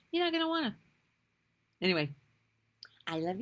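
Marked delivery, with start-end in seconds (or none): 0.1-0.8 emphatic repeat. Real, not acted. Warning viewers off the news.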